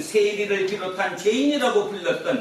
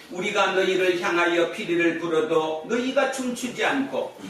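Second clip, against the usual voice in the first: scripture reading. Acted. Preacher reading Jesus' parable to the congregation, formal recital. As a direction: read it out as solemn scripture. Reads the Bible passage aloud.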